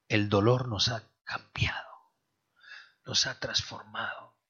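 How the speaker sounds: hushed, breathy whisper, slowing at the end. Acted. Preacher whispers to the congregation that pain transformed them. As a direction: drop to a whisper so they lean in.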